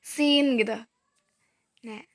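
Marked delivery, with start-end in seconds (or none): 0.1-0.6 Sin with lips spread in a smile; smiling sin. Shown as a demonstration. Teacher shows the mouth shape, Sin said smiling. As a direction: say Sin with a light, thin S through a smile. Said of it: "sambil kayak senyum gitu".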